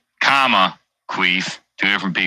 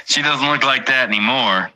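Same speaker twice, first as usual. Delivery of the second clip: higher mocking repeat; 5 semitones higher than usual. Shown as a demonstration. Streamer repeating his own line to chat, higher and teasing. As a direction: look said higher, falling off at the end.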